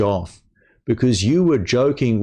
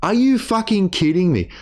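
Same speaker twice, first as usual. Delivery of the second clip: high mock-incredulous imitation; a hint of mocking him; mocking quote; 9 semitones higher than usual. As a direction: lightly parrot his outburst back. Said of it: "he says".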